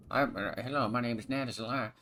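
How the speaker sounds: a friendly intro in a friend's voice; impression of Nat. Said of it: "That was actually a really good impression".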